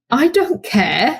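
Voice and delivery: slow, chuckling I don't care; amused carefree dad; laughing dismissal. Retold or imitated. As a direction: shrug it off with a laugh.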